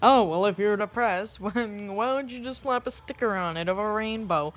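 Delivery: put-on clueless helper voice; mocking glib advice. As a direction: imitate someone breezily offering useless advice. Mimics glib advice to depressed people.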